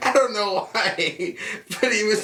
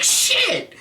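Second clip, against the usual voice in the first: yelp. Retold or imitated. Pain from car on foot.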